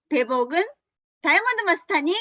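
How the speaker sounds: high, quick announcer's build; rousing introduction. Real, not acted. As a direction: bring the speaker on with a lift. Host introduces the next speaker.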